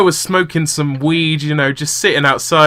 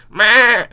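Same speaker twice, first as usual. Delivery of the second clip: goat bleat; 6 semitones higher, 3 dB louder than usual. Retold or imitated. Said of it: "it just goes".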